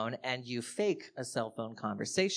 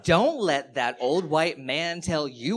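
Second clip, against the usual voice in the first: higher, louder, showy supportive friend; fake supportive call; 4 semitones higher, 4 dB louder than usual. Comic faking a call for canvassers, loud and showy. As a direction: perform liberal support for listeners. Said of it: "I was like".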